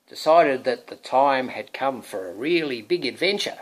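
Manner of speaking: loud, bold announcing of the knight; heroic storybook. Acted. Parent reading to birthday boy, heroic storybook voice. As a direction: make the hero sound grand. Introduces the hero.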